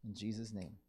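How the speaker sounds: steady, earnest prayer voice with pauses; closing prayer. Acted.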